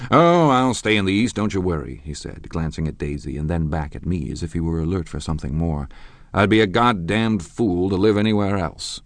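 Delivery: loud, emphatic boast; blustering retort. Acted. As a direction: brush off the doubt forcefully. Tom's blustering answer.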